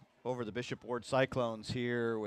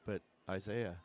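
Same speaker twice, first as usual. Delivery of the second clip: radio voice; 3 semitones lower, 5 dB quieter than usual. Pretend. Broadcaster answers his partner's movie quote for fun, radio voice. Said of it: "Been working on my radio voice".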